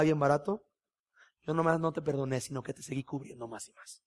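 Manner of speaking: soft, tender reassurance; gentle voice of God. Retold or imitated. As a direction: speak kindly, like God consoling. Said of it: "Y de repente empieza". (la voz de Dios, suave y tierna)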